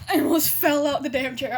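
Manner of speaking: real laughing embarrassment. Real, not acted. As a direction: laugh through the memory. Flustered recalling being called sweetie.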